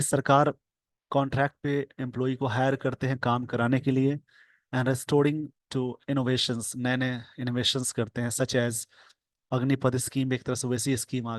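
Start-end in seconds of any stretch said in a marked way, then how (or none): 4.7-6.8 slow dictation. Shown as a demonstration. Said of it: "slow dictation reading".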